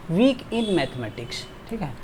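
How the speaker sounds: slow, stressing "weak"; slow model phrase. Shown as a demonstration. Teacher reading "weak in mathematics" slowly. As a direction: read it slowly and clearly. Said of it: "good at mathematics होता है".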